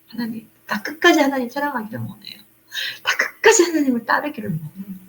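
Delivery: quiet, earnest prayer to God; confiding a longing to God softly. Retold or imitated.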